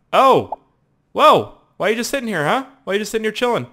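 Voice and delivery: high, exclaiming disbelief; startled questioning. Real, not acted. Gamer to player just sitting there, startled. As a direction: exclaim high at a baffling sight.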